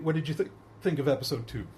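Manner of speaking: talking through hiccups; interrupted by hiccups. Real, not acted. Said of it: "I have the hiccups".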